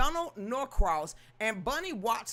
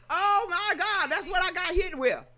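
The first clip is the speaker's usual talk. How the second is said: real disbelief; 7 semitones higher, 5 dB louder than usual. Real, not acted. Vlogger reacting to TikTok ban in loud disbelief.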